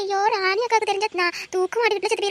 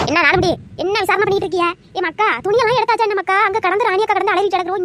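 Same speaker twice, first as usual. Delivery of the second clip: loud nagging scold; a village aunt loudly scolding the idle girls; 6 dB louder than usual. Acted. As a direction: bark at them like a fussy aunt.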